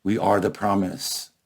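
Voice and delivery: measured poem reading with weighty pauses; poetry recital. Acted. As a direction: recite it solemnly, letting phrase endings fall. Recites his poem to the audience.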